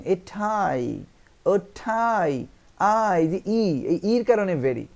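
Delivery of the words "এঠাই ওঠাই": এঠাই and ওঠাই drawn out long, pitched high; slow, heavily stressed এঠাই, then ওঠাই; emphatic stress. Shown as a demonstration. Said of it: "গুরুত্ব দিয়ে বোঝাচ্ছেন".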